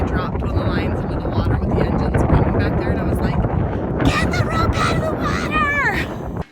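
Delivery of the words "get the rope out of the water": high, slow mock yell, no louder; retold scream. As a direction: replay the yell at a crew member. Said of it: "I was just, like, screaming at Zayd".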